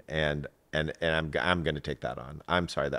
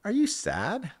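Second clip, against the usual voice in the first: high, rising, gentle-sounding question; asking about sadness; slower than usual. Retold or imitated. Parent checking on crying nine-year-old, high rising question. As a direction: lift the voice right up on the question. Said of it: "I was like".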